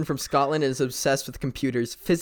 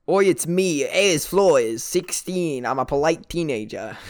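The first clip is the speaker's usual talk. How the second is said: badly faked Aussie, slipping toward normal voice; awful Australian accent. Improviser introducing a polite Australian teenager, shaky fake Aussie accent. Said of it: "like, a really awful Australian".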